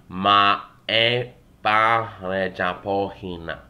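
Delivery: slow, careful 'ma e pare japohina', each syllable set apart; careful retake. Shown as a demonstration. Teacher redoing the dialogue line for students, slow and careful. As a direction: spell out 'ma e pare japohina' slowly and clearly for learners. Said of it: "Take two".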